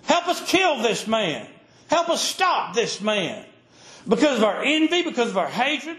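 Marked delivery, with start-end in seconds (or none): 0.0-3.4 a mob calling on the men of Israel; crowd crying out. Retold or imitated. Preacher voicing a temple crowd crying for help. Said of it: "And they're crying out".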